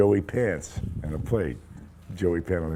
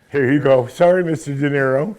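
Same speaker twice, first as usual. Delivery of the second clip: higher and louder, a simpering apology; mock fawning actor; 8 semitones higher, 10 dB louder than usual. Nervous actor grovelling to De Niro, simpering apology. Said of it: "every other actor picked it up".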